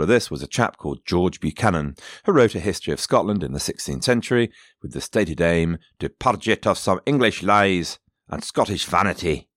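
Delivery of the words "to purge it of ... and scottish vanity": put-on a light Scottish accent on the quoted aim. Quoting George Buchanan's stated aim, in a faint Scottish accent. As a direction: quote him with just a hint of Scots. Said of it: "he said it in a Scottish accent".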